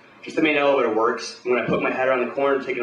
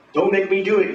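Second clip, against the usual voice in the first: higher, louder panicked threat; desperate scream; 8 semitones higher, 4 dB louder than usual. Acted. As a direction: screech it like a cornered weasel. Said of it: "he screams".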